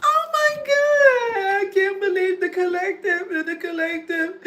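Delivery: high, loud fake sob; mock crying. Mimicking the bitter ones sobbing over the collective, fake crying. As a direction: wail it like a hammed-up crybaby.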